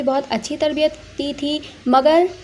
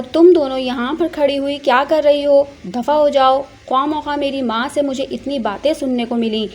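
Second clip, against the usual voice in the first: louder scolding of the maids; angry at the maids; 3 dB louder than usual. Acted. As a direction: snap at the servants to get out. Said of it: "अपना गुस्सा नौकरानियों पर निकालते हुए".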